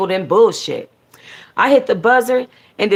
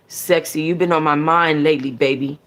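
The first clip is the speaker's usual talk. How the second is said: wrong voice; 2 semitones lower than usual. Shown as a demonstration. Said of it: "Oh, wait, wrong voice".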